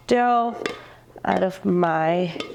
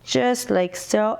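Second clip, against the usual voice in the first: blocked nose, stuffy voice; talking with a stuffy nose. Real, not acted. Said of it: "excuse my stuffy voice".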